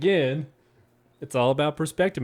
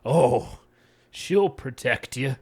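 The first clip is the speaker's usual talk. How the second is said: casual reading; slower than usual. Shown as a demonstration. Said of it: "Maybe if he said it like this".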